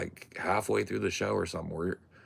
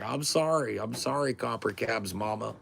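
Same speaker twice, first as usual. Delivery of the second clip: sheepish apology; 6 semitones higher than usual. Retold or imitated. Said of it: "I was like".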